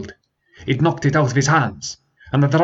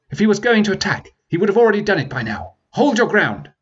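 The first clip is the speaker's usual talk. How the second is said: commanding prince; 10 semitones higher, faster than usual. Acted. Prince commanding his men.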